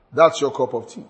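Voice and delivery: a touch of brush-off in a flat tone; dismissive. Shown as a demonstration. Board member brushing off a question, mildly dismissive. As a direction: wave it away lightly. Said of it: "That's dismissive".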